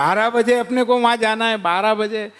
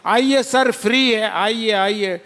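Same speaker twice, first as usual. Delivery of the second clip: hawker calling. Acted. Jewellery sellers inviting people.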